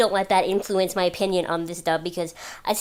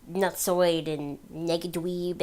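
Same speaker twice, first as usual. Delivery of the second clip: nineties cartoon slang; 5 dB quieter, much slower than usual. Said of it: "Nobody actually talks like that".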